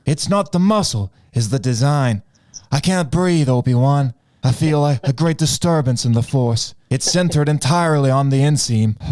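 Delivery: Anakin. Acted. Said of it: "Anakin is struggling".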